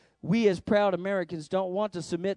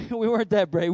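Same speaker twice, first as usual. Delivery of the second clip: laughing admission; 4 dB louder than usual. Real, not acted. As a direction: chuckle through it, a bit louder.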